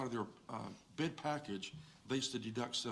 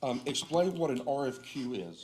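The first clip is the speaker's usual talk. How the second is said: loud; 3 semitones higher, 8 dB louder than usual. Real, not acted. Relaying question to speakerphone.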